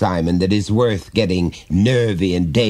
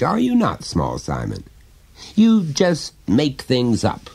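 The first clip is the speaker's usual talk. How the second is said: lightly voiced father, higher and coaxing; a hint of a chummy dad prying gently; jovial father; 3 semitones higher than usual. Father coaxing his small son to confide, lightly voiced.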